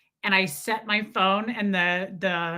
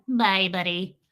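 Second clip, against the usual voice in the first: lightly voiced little cartoon farewell; a hint of a cartoon creature; penguin from Elf; 3 semitones lower than usual. Penguin saying goodbye to Buddy, light cartoon voice. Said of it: "And the penguin".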